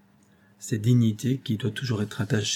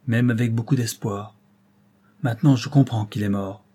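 put-on grave young man, pressing and relentless; Robert confronting the old lieutenant, relentless; stern accuser; 2 semitones higher than usual. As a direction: hammer each fact home.

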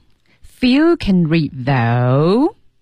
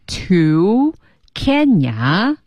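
word-by-word; 3 semitones higher, much slower than usual. Shown as a demonstration. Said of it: "模仿他的调调".

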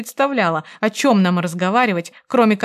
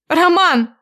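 very high, loud cry of his name; громкий выкрик; shouted call; 10 semitones higher, 7 dB louder than usual. A narrator's reading. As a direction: yell for him to come now. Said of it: "снова выкрикнула я".

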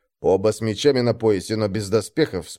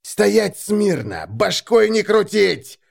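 high, slow, drawn-out bawling; forceful, stretched-out barking; yelled order; 8 semitones higher, much slower than usual. A narrator's reading. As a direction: bawl each command at the captive. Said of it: "заорал дядька".

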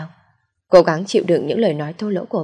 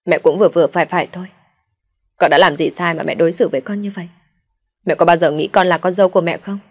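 a mild raised voice, quick and indignant; angry outburst; 3 dB louder than usual. Acted. Daughter-in-law finally snaps at her mother-in-law, mildly raised angry voice. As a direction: push back at her at last, hurt and fed up. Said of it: "vừa ức vừa giận tôi quát lên".

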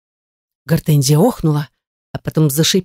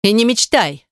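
barked retort; 5 semitones higher than usual. Acted. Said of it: "рявкнула Гортензия".

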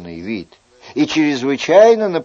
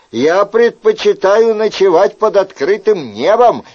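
higher, louder indignant guest; indignant Chicot; 4 semitones higher, 4 dB louder than usual. Acted. Chicot complaining to the innkeeper about the flimsy house, indignant. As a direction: scold the host, fed up.

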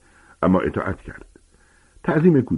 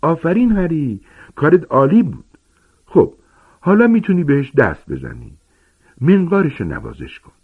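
higher, thrilled giant's praise; overjoyed gamekeeper cheering, higher; delighted Hagrid; 9 semitones higher, 3 dB louder than usual. A narrator's reading. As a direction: burst with joy at Harry's success. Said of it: "به وجد آمده بود".

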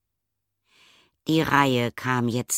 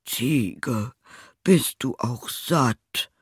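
questioning tailor; 2 semitones higher, much slower than usual. A narrator's reading. Suspicious tailor questions goat.

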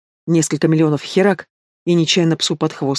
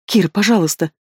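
pleading; 3 semitones higher than usual. Acted. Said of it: "взмолилась я".

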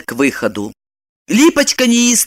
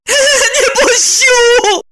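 high wailing plea, slow; 3 dB louder, much slower than usual. A narrator's reading. Lipochka wailing at Roman to stop him. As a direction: wail it out, desperate. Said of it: "заголосила Липочка".

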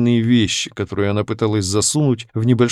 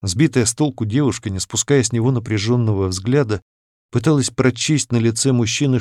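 ordinary delivery, nothing marked

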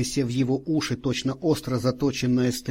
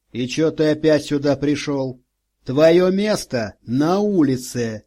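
rude snarl; 2 semitones higher, 4 dB louder than usual. Acted. Policeman bullies homeless man. (грубо и злобно)

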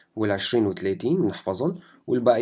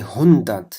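هوندات louder and slow; emphatic hundert; 9 dB louder, slower than usual. Shown as a demonstration. Teacher stresses هوندات for students, louder. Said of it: "عنا تنتين".

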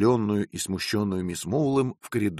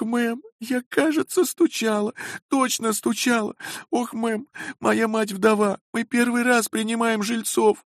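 much higher, weepy begging; tearful pleading. A narrator's reading. Landlady's daughter begging guests not to leave, weeping. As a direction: plead through tears, desperate. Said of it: "залилась слезами".

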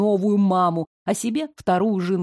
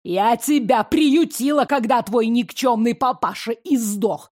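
furious tirade. Acted.

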